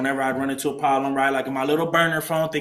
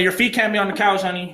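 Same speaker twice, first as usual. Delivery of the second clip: higher-pitched imitation of a woman scolding; scolding lady; 5 semitones higher than usual. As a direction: mimic a house matron telling someone off. Voices Nancy scolding him about feet.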